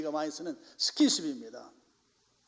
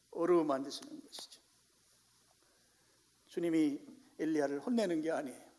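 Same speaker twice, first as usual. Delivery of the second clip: ordinary talk, nothing marked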